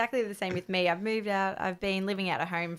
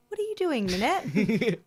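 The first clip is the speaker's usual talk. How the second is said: imitating mum; 3 semitones higher than usual. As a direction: call out like a cheery mother. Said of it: "She'd be like".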